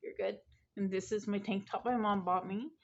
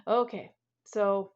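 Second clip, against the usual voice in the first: emphatic okay; 6 dB louder, slower than usual. Real, not acted. Restarting topic with emphasis.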